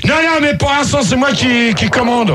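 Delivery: shouted assertion of authority; real shouting. Real, not acted. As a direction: yell to take back command. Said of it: "plus jolie quand tu cries".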